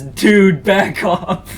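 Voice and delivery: loud, stern dude order; tough white knight. Retold or imitated. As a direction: bark it like a hero. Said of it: "he says".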